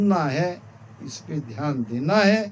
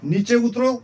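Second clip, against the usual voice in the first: raised-pitch order called up to him; commanding order; 5 semitones higher, 3 dB louder than usual. Acted. Bandit chief to the man up the tree, commanding.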